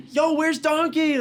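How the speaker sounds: slow, high mock holler; excited yelling. Imitating Burger King guy joking with customers, high excited shout. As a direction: call it out loud in an overexcited imitation. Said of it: "the guy's just like".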